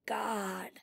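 very soft, drawn-out whisper. A narrator's reading. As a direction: barely let the word out, hushed. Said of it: "in a whisper".

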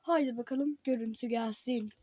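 reading headlines like an anchor; newscaster voice. Pretend. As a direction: pretend TV news read. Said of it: "tam bir spiker gibi konuştum". (haber spikeri gibi)

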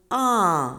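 "а" held long and loud; drawn-out "а" with a falling glide; isolated vowel. Shown as a demonstration. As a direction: sound out a clear, emphatic "а". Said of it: "Шукаємо звук".

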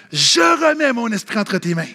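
mild imitated cry, long and sustained; loud voice. Jesus crying out to the Father, loud voice. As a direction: proclaim it as a cry, held back in volume. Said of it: "Il crie d'une voix forte".

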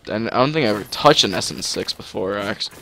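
tripping over the words; stumbling stammer on actually; stuttering. Real, not acted. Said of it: "I'm stuttering".

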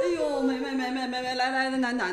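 grandma cooing to her crying granddaughter. Acted. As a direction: coo over the baby to calm her. Grandma takes the crying baby.

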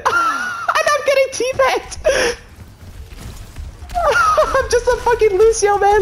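laughing shout. Real, not acted. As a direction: yell through laughter. Being killed, laughing shout.

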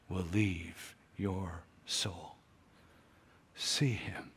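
soft hushed whisper, drawn out slowly. Real, not acted. Preacher hushing the congregation, slow and whispered. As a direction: breathe it to them like a secret. Intimate close of appeal.

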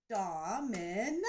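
Domino slow, DO-MI-NO in three beats; clapped syllables. Shown as a demonstration. Teacher clapping out Domino for kids. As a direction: beat out each part of Domino slowly. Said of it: "Let's clap out the beat".

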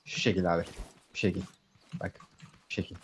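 stiff, mechanical robot imitation; toy robot voice. Shown as a demonstration. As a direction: play it like a clunky toy robot. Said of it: "Robot taklidi yaparak ama".

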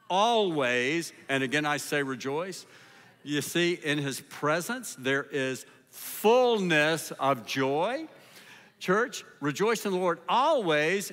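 rising, rhythmic preacher's call to rejoice; preaching. Acted. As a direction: exhort the church with swelling cadence. Preaches to the church.

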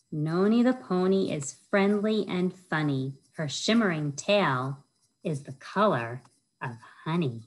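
lilting rhyme-reading voice, bouncing on each rhyme; reading to children. Acted. Children's librarian reads a rhyming book to kids, sing-song storytime voice. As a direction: read it like storytime for little kids.

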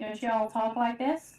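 slow, drawn-out American y'all voice; mock American accent. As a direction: stretch it out in a put-on American accent. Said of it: "Is that your American accent?".

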